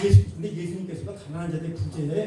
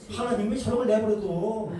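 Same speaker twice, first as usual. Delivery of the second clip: slow resentful grumble; 3 semitones higher than usual. Retold or imitated. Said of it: "이렇게 된다".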